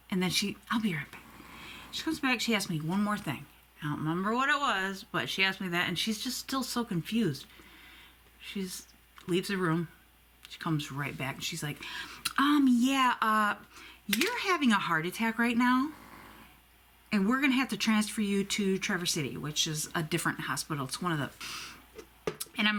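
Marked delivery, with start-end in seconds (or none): 0.7-1.2 whispered, hurried; nurse's whisper. Retold or imitated. Nurse leaving, whispered aside. 12.4-19.4 nurse delivering news. Retold or imitated. Nurse delivering heart attack news.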